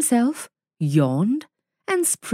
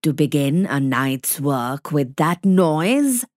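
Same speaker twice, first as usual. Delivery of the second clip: lightly voiced scornful wolf; 5 semitones lower than usual. A narrator's reading. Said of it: "said Father Wolf".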